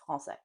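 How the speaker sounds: français with nasal a, no N; français said short, nasal vowel; correct nasal. Shown as a demonstration. Teacher repeats the correct French word. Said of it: "it's français".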